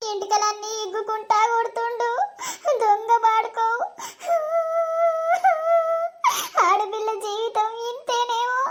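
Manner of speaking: understated tearful lament; crying. Acted. Beaten wife alone, grieving her lot, crying. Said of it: "ఏడుతున్నావు?".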